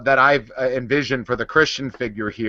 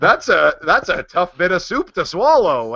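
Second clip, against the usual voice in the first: talking toy voice; 2 semitones higher than usual. Pretend.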